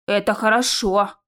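slow, mildly pleased remark. Acted. Naev hears there are twenty doors, pleased. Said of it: "обрадовался Наев".

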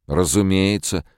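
loud, high, annoyed retort; irritated. A narrator's reading. Bogert irritably answering Calvin's obvious question. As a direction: snap back impatiently. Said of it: "раздражённо сказал Богерт".

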